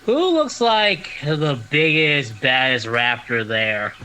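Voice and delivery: slow, high put-on elf voice; disguised elf voice. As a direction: drawl it like a sly Christmas elf. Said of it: "this voice is killing me coming from you".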